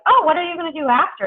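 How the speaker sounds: high-pitched, lightly acted query; role-played question. Acts out a coach asking client.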